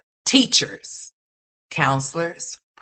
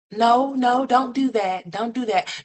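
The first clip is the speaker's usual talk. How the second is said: higher, louder scolding; 8 semitones higher, 3 dB louder than usual. Real, not acted. Viewer scolding little Kalani sharply, higher and louder. Scolding child through screen.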